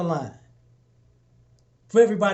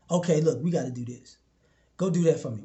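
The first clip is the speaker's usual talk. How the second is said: low, soft, matter-of-fact orders; calm leader giving orders; 5 semitones lower, 3 dB quieter than usual. Retold or imitated. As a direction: hand out the task quietly like a boss.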